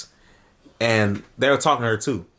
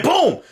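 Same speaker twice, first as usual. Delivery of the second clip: high, punched sound-effect "boom"; sudden storytelling boom; imitated boom; 13 semitones higher, 3 dB louder than usual.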